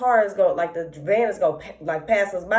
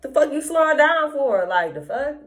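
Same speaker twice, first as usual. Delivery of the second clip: higher-pitched mock confrontational snap at the van; shitty attitude; 7 semitones higher than usual. Telling friends how she mouthed off at the slowing van, with attitude. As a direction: play it like a teen with attitude, neck rolling. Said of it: "my attitude was shitty".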